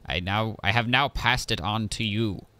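lightly voiced robot scientist; formal robot assistant voice; mad scientist voice. Voices the steward construct.

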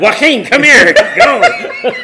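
high laughing shout to come over; laughing call. Pretend. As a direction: call him over, cracking up. Calling him over, laughing.

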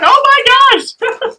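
high, loud, drawn-out mock exclamation; imitating mother. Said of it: "My mother's like".

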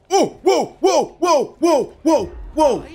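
high, startled whoas; startled at what happens on screen; surprised whoa. Real, not acted. Sudden surprise in game.

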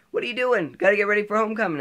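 imitating mom, high and loud; exasperated mom. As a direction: scold a kid in a high mom voice. Voicing mom surprised he isn't ready.

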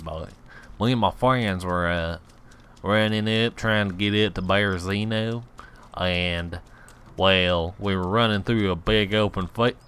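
hillbilly storyteller twang; hillbilly accent. Pretend. Gamer telling how the friends died, hillbilly accent. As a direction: spin the tale in a backwoods American accent. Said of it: "my best accent is a hillbilly American accent".

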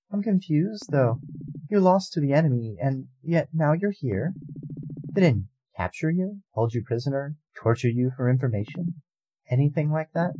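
high, probing goddess voice; a lofty goddess, suspicious; puzzled goddess. Acted. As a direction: press her for answers from above. Goddess questions her.

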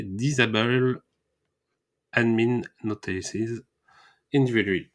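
clumsy Frenchified English; heavy French accent on English. Real, not acted. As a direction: read the English plugin name the way a French speaker would, word by word. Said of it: "Excusez-moi pour mon accent anglais exécrable".

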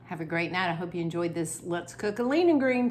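talking through a mouthful of food; mouth full. Real, not acted. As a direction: chew and talk at once. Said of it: "Sorry, I'm talking with my mouth full".

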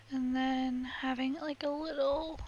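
cracking voice. Real, not acted. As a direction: let the voice crack and break. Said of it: "my voice keeps cracking".

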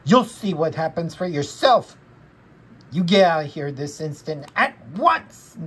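mildly cross order. Acted. Linus ordering someone out of here, mildly cross. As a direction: send him away with a little scold. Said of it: "said Linus crossly".

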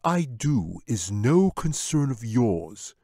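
lightly voiced smooth wizard; a hint of a wizard calming his pet. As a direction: soothe the bear like a sly wizard. Wizard dismisses bear.

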